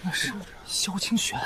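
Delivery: quiet, secretive remark; hushed gossip. Acted. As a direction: point out the newcomer under your breath. Onlookers murmur about the arrival.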